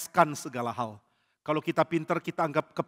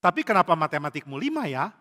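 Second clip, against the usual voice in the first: conditional love; 3 semitones higher, 5 dB louder than usual. Shown as a demonstration. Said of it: "Jangan pakai koma".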